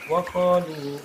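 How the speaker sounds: chanted "wa qalu" begun afresh; resumed recitation. Shown as a demonstration. Teacher resumes after the stop, chanted "wa qalu". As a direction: recite "wa qalu" holding the long vowels. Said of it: "Kalau berhenti".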